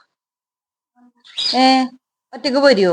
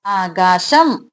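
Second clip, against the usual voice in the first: ആകാശം drawn out very slowly, rising; slow model word; 4 semitones lower, much slower than usual. Shown as a demonstration. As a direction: spell out ആകാശം slowly for the child. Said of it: "parent models the word slowly". (ആകാശം പതുക്കെ നീട്ടി)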